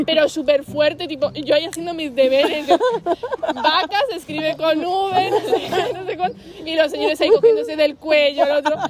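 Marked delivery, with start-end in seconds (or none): 3.6-6.4 slow, sing-song spelling-drill voice; kid doing homework. Retold or imitated. Girl doing homework beside a fight, slow schoolkid recitation. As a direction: drag it out like a child copying a dictation.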